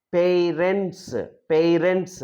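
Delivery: "parents" slow, both syllables given full weight; model pronunciation. Shown as a demonstration. Teacher modelling for students, "parents" in careful syllables. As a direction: stretch the first vowel of "parents" into a glide. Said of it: "like that you have to pronounce".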